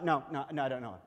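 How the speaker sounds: casual denial. Acted. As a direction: wave the question away, acting Peter. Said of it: "he makes a note".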